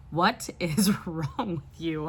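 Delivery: slow whispered question, half laughing; whispered husband. Retold or imitated. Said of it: "my husband's like".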